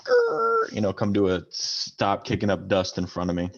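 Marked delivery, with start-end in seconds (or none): 0.0-0.7 engine growl. Retold or imitated. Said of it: "like, sort of, like".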